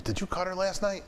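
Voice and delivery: retold disbelief; mock alarmed question. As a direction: sound shocked on his behalf. Colleague alarmed about the cut.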